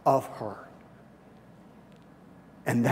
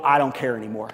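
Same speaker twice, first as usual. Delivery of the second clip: desperate resolve; 4 semitones higher, 7 dB louder than usual. Acted. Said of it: "an act of just total".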